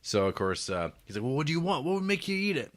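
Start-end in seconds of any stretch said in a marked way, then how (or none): 1.2-2.7 high-pitched mock exasperation; retold exasperated pleading. Monk asks the fasting man what he wants, mock exasperated. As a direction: plead in a raised, acted-out voice.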